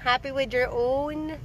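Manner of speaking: a mother cooing softly; slow tender coo. Real, not acted. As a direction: coo gently to the little one. Talking to a small child.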